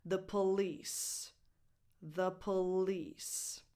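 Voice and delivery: "The police" slowly, ending on a hissed voiceless S. Shown as a demonstration. Teacher putting the sounds together, voiceless S ending. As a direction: say The police slowly as thuh puh-LEECE. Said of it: "finish the sound with a sibilant".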